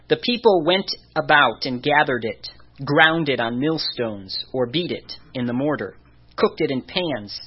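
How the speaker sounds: measured Bible reading with deliberate pauses; scripture reading. A narrator's reading. Preacher reading Numbers eleven to the congregation, measured scripture reading. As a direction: read the verses out deliberately, phrase by phrase.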